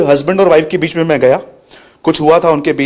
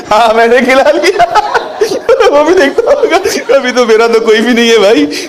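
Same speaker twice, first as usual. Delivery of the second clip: high, laughing snake voice; 8 semitones higher than usual. Acted. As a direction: sneer it out high as the gloating snake. Voicing the snake in a story. (हँसता हुआ ऊँचा साँप)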